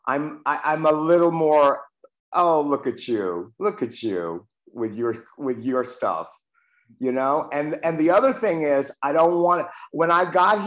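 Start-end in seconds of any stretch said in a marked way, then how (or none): 2.3-6.3 a lightly voiced kinder inner voice, softer; gentle self-talk. Man showing how he now talks to himself, lightly gentle. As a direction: coax yourself fondly, a touch of pride. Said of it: "The voice to myself is gentler, is kinder".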